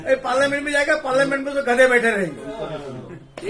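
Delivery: loud, laughing jab, slowing on the last line; laughing mockery. Real, not acted. Laughing loudly while mocking parliament to the panel. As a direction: scoff through laughter at the house.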